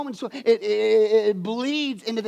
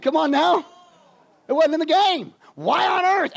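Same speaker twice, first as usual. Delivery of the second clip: louder and higher, exasperated; exasperated exclaim; 7 semitones higher, 5 dB louder than usual. Real, not acted. Preacher to congregation, exasperated loud exclaim. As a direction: throw up your hands in disbelief.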